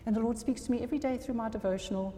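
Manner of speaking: quick, sing-song parody of a box-ticking believer; mock smug churchgoer. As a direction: rattle off the checklist like a self-satisfied Christian. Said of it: "I don't know why I'm speaking like that".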